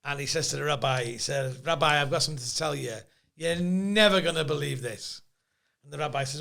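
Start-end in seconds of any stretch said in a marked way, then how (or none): 1.7-5.2 Jewish joke voice. Acted. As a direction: tell it with a hint of a Jewish accent. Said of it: "You're doing the voice".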